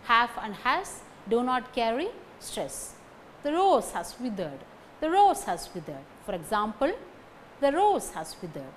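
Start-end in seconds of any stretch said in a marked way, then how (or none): 3.4-4.6 "rose" and "withered" stressed, weak "has". Shown as a demonstration. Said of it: "Only these two words carry stress". 5.0-6.0 "rose" and "withered" stressed, weak "has". Shown as a demonstration. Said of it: "Only these two words carry stress". 7.6-8.7 "rose" and "withered" stressed, weak "has". Shown as a demonstration. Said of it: "Only these two words carry stress".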